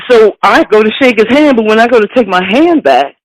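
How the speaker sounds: usual speaking voice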